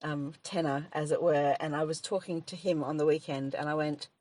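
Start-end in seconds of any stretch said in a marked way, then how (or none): none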